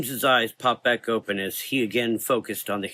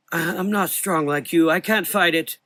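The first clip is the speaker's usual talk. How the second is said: put-on high, louder frightened old voice; fearful; 8 semitones higher, 4 dB louder than usual. A narrator's reading. Old doctor admits his fear to Frank. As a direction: stammer it out in fear. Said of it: "his voice full of fear".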